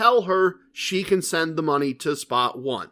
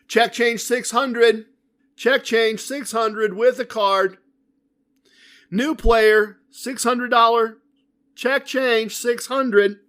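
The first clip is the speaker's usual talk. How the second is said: dealer call-out; 6 semitones higher, slower than usual. Retold or imitated. Dealer calling the buy-in.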